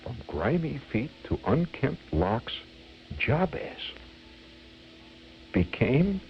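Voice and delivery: measured, rhythmic verse recital; comic poem reading. Acted. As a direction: relish each rhyme of a mock cautionary tale.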